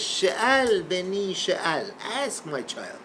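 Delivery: slow, drawn-out and patient; slow patient invitation. Retold or imitated. Hillel patiently inviting the heckler's question, slow and gentle. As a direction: invite him gently to ask, slowly. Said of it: "he says".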